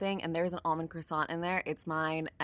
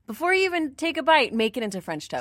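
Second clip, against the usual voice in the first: mock label voice; 8 semitones higher, 7 dB louder, faster than usual. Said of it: "I get why they're like".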